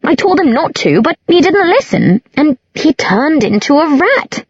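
high, tipsy indignant whine; high-pitched, defensive complaint. A narrator's reading. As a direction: protest it in a high drunken voice. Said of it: "Isabel said indignantly".

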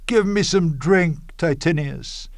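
high-pitched mock plea of an invalid; Caesar as sick girl. Cassius mocks fevered Caesar asking for drink, like a sick girl. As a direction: lightly mimic a sick girl begging. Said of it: "as a sick girl".

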